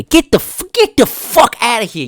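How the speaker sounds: mock outrage at the Brit, shouted; mock furious shout. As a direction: shout him out of the room in play.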